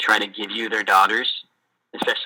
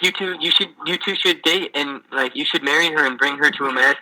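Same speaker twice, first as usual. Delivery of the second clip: higher, eager matchmaking; insistent matchmaking dad; 4 semitones higher than usual. Retold or imitated. Missionary voicing the dad urging marriage, higher. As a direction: urge them to marry, all eager.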